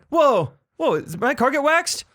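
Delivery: high, hammed-up amazement; exaggerated high-pitched double take; mock astonishment. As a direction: play a car owner stunned by his prank. Acting out the pranked car owner.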